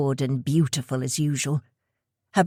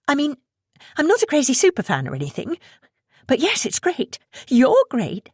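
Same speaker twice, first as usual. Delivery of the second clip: nervous gushing; 10 semitones higher than usual. Acted. Nervous fan gushing to idol.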